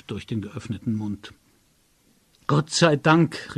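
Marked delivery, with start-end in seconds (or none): 2.5-3.6 slow, louder cry of relief; relieved joy. A narrator's reading. Narrator finds his friend, relieved and glad. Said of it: "rief ich erfreut aus".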